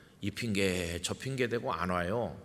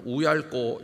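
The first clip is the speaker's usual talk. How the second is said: Gyeongsang dialect cry, louder and punchy; dialect exclamation; 3 semitones higher, 5 dB louder, slower than usual. Retold or imitated. Pastor voices Moses in Gyeongsang dialect, a dismayed groan. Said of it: "사투리로 말하면".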